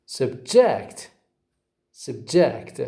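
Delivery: "subject" stressed on the second syllable, sub-JECT. Shown as a demonstration. Teacher showing students the verb "subject", stress on JECT. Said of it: "stress on the second syllable".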